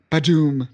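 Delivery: big comic-book boom; booming impact sound. Shown as a demonstration. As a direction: voice a big blast, "badoom". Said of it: "not bada boom".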